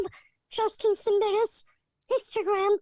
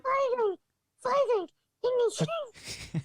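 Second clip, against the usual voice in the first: muffled bad mic audio; sounding like talking underwater; 2 semitones higher than usual. Real, not acted. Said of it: "you sound like you're underwater".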